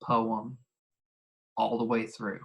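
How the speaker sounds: slow, spaced out for note taking; dictation pace. Shown as a demonstration. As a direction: spell it out slowly. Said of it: "write this down".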